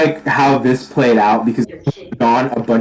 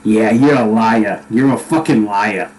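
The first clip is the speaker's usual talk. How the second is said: cold accusation; 5 semitones lower than usual. Acted. Angry character answers the archer's excuse, cold accusation. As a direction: drop low and press the accusation.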